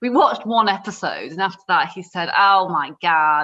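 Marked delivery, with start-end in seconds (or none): 2.4-3.5 put-on American-accented exclamation. Retelling what a man said after watching one episode, in his American accent. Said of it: "in his American accent".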